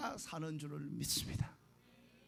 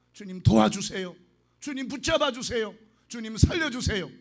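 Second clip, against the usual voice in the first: crying out prayer; 6 dB louder than usual. Shown as a demonstration. Pastor cries out a model prayer.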